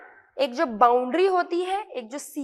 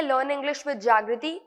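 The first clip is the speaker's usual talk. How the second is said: slow promo read; much slower than usual. Shown as a demonstration. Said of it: "channel name promo".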